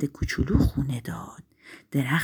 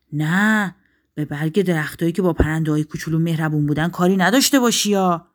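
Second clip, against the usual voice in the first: lightly voiced king, louder and quick; commanding forest king; 5 dB louder, faster than usual. Forest king orders the wind off, mildly commanding. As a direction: give a firm royal order, fast.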